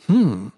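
cooing hmm. Acted. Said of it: "Murta cooed".

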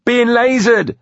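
very high, loud panicked shout; panicky. A narrator's reading. Des warning the others of laser fire, high and panicky. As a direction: cry out in high-pitched alarm. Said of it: "high and panicky".

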